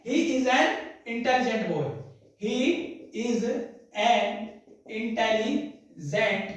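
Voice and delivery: he is an intelligent said slowly with an stressed. Shown as a demonstration. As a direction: lean on an, word by word. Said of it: "जब हम लिखेंगे". ("an" पर ज़ोर, धीरे-धीरे)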